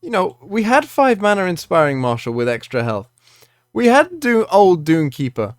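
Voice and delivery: calm start building into a loud rant; calm turning angry. Real, not acted. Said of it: "obviously this is a rant".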